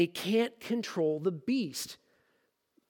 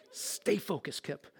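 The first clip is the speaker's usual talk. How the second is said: laughing self-reminder; 3 semitones lower, 7 dB quieter, slower than usual. Real, not acted. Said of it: "laughing to himself".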